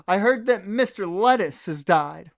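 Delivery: a hint of a dramatic French lady; mock French woman announcing bad news; her voice. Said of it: "how I'm doing her voice".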